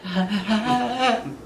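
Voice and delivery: stuttering, convulsive cry; mock seizure noise. Reacting to rough sex, mock seizure noise. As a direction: imitate a shuddering, broken wail. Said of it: "I was having a seizure".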